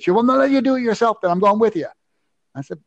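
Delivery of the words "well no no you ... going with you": mock the worried runner, pitched up; imitating the woman. Retold woman insisting on going.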